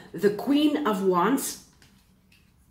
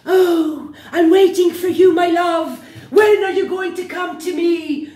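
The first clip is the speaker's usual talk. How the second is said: higher, louder mock-pining shout; mock drama; 7 semitones higher, 6 dB louder than usual. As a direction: ham up a lovesick pleader. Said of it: "This is drama".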